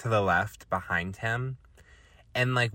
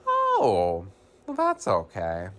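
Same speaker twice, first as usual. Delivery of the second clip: changed demeanor; 6 dB louder, slower than usual. Retold or imitated. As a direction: imitate a sudden switch to easygoing reassurance. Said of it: "he completely changes his demeanor".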